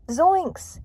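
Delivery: very high startled cry; panicked exclamation. Acted. Shaggy learning he is cursed, high panicked cry. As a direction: let it leap up high in cartoon fright.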